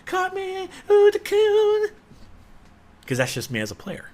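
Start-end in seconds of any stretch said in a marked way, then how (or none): 0.1-1.9 high, giddy fanboy squeal; a high, excited mock fanboy; gleeful gamer. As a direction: gush like a kid playing. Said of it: "just go".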